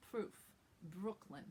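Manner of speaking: "Proof, Brooklyn" with a little V in the R; puffed R. Shown as a demonstration. Teacher models words that sound very New York, puffed R. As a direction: soften the R in "Proof, Brooklyn" to a puff. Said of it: "just a little V".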